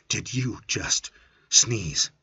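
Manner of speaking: slow, pointed accusation; suspicious question. Acted. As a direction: draw it out, accusing.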